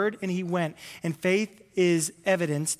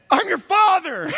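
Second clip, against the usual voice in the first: slow, much higher and louder; mock-stern dad laying down the law; stern father shout; 12 semitones higher, 9 dB louder, slower than usual. Dad answering his kids, slow loud mock-stern. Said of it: "and I'll be like".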